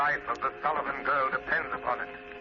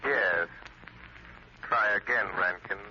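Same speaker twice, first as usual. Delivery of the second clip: lower, smug taunting voice; mocking phantom; 5 semitones lower, slower than usual. The Shadow taunting Rankin, low and smug. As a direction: taunt them from nowhere.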